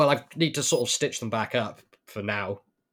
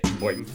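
boing sound effect; 4 semitones lower than usual. Pretend. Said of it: "listen to the noise it makes".

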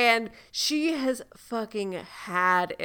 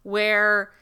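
whispered quote. Retold or imitated. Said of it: "she's like".

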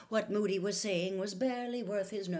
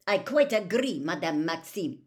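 Karkaroff; 2 semitones higher, 8 dB louder than usual. A narrator's reading. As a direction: agree emphatically, pitched up. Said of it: "said Karkaroff".

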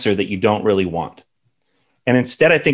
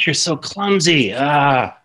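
higher, put-on voice of a scolding parent; mock harsh parent; 3 semitones higher, slower than usual. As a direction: imitate someone who yells at a four-year-old, lightly. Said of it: "Some people do".

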